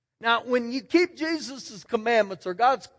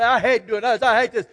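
put-on sulky kid grumble. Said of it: "kick the rocks all the way out there and say".

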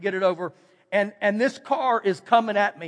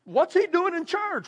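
judgmental scoff; 8 semitones higher than usual. Retold or imitated. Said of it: "some people would look and say".

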